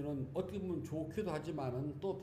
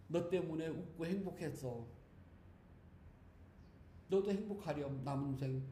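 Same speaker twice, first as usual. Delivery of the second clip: tender farewell; 3 dB quieter than usual. Shown as a demonstration. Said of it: "그러면 좀 멋있지 않을까요".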